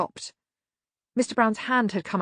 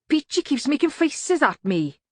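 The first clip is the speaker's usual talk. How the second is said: put-on high childish complaint; whining tattletale; 8 semitones higher than usual. A narrator's reading. Gang member telling on Peachy, high childish whine. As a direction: tell tales like a small child.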